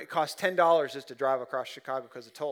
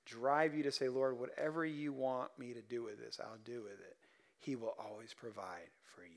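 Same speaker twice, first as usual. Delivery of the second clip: earnest softening; 6 dB quieter than usual. Real, not acted. Earnest sermon point.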